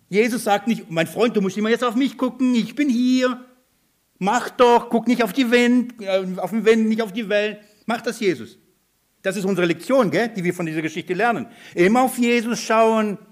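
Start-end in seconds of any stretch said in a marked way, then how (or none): 0.9-7.6 high-pitched, pressing instructions; mock urgent admonishing. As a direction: act out nagging someone to pay attention. Spielt drängend mahnenden Jesus, den er verneint. (gespielt drängendes Ermahnen)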